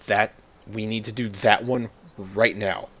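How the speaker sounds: put-on hamming up a South American accent as the Pope; mock Pope Francis accent. The Pope ordering a church upgraded, in a mock Argentine accent. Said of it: "I can't do South American accents".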